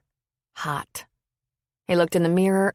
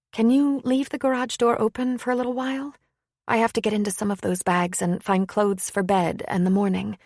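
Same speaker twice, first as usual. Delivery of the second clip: lightly voiced woman, a bit higher; a polite request in a lightly raised woman's voice; 3 semitones higher than usual. Woman guest asks to unpack.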